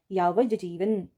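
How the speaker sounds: यावज जीवन with a clear j in यावज; correct form. Shown as a demonstration. Teacher to students: यावज जीवन said slowly and clearly. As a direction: say यावज जीवन carefully, the right way. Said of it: "इसका सही स्वरूप होता है यावज जीवन".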